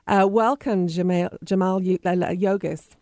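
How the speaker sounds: stumbling over a name with numbed lips. Real, not acted. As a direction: lips numb from a cough drop, words slurring. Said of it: "it's numbed my lips".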